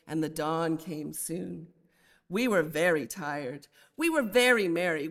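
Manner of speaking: measured, lilting reading of a poem with a steady beat; poem recitation. Acted. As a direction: let the refrain swing gently, like reading verse to a class. Recites Millay's Recuerdo aloud.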